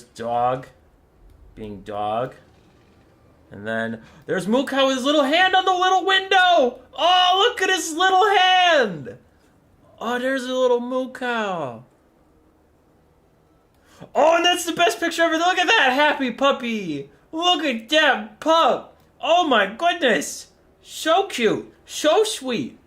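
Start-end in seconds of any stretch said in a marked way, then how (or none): 4.3-11.8 squealing, very high pet voice. Real, not acted. Gushing over pet's little hand. 14.1-22.8 gushing puppy talk. Real, not acted. Gushing over favourite puppy picture.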